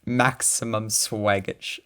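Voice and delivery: slow, drawn-out silly catchphrase; lightly goofy, drawn-out delivery; Stampy-like voice. Real, not acted. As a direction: stretch it out slowly, a little like a goofy YouTuber. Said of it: "You sounded like Stampy".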